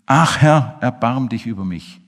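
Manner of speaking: loud pleading cry, then easing; a blind beggar shouting to be heard. Acted. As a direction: call out for mercy. Blind man cries out to Jesus.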